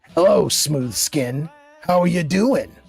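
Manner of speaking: very gravelly put-on voice, thick gravel throughout. Reading a viewer's chat message aloud in a very gravelly voice. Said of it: "I have to use a very gravelly voice".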